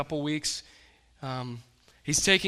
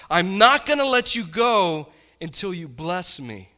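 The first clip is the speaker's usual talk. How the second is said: determined cry; 4 semitones higher, 10 dB louder than usual. Retold or imitated. Jacob wrestling the angel.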